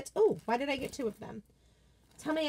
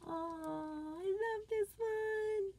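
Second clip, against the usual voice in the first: gushing; 10 semitones higher, 10 dB quieter, much slower than usual. Real, not acted. Gushing over a favorite sign.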